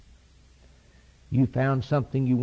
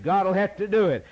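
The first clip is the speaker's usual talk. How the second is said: higher, ringing declaration; fervent refrain; 7 semitones higher than usual. Real, not acted. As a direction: proclaim it at full preaching force. Refrain at rising climax.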